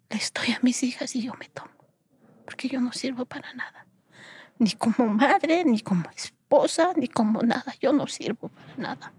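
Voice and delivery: choked-up, halting recollection; fading breath, voice close to breaking; anguished despair. Retold or imitated. Woman reliving her suicidal thoughts after divorce, anguished despair.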